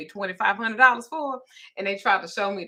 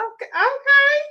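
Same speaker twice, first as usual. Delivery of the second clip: half-laughing okay; 4 dB louder than usual. Retold or imitated. Granny giving in to toddler.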